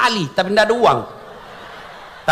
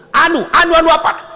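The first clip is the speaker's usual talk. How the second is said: flustered stammer; 8 semitones higher, 4 dB louder than usual. Acted. Official flustered under angel's questioning.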